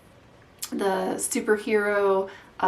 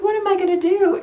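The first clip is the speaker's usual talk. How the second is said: mock crying wife; 10 semitones higher, 7 dB louder, faster than usual. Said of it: "she's crying and she's like".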